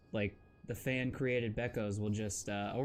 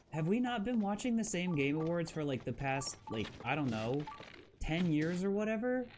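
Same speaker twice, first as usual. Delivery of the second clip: exasperated, pitched-up disbelief; incredulous rhetorical quote; 6 semitones higher than usual. Retold or imitated. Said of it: "and I'm like".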